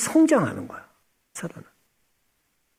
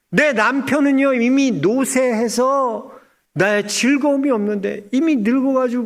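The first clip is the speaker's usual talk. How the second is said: Sarah complaining; 4 semitones higher than usual. Retold or imitated. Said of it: "듣고 있던 사라가 어떻게 되냐면".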